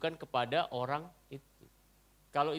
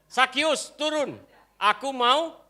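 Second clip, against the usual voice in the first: lightly voiced Jesus; 10 semitones higher, 8 dB louder, slower than usual. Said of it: "Tuhan Yesus kan senangnya makan".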